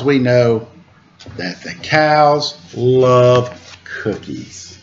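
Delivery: lilting storybook rhymes, slow refrain; reading to children. A narrator's reading. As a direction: read the rhyme aloud to little listeners. Reads picture book to children.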